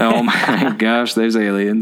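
slow, laughing quote; laughing through a quote. Retold or imitated. Repeating the alien joke to his co-host, laughing. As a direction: laugh your way through the words.

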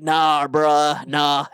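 mock California bro; California accent. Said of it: "to fucking California where they're like".

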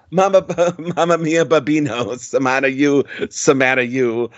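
mock Italian sing-song, lightly done; hammed-up Italian crooning in a light touch; Italian accent. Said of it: "sings it in an Italian accent".

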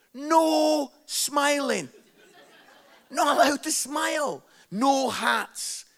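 loud, slow official command; stern rule. Retold or imitated. Passport photo rule told to the audience, loud and stern.

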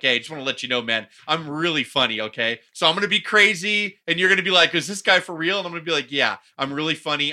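loud, pushy mock introduction; self-declared funny guy. Host acting someone introducing himself, loud mock boasting. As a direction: lightly play a loud show-off. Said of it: "introduce themselves and they're like".

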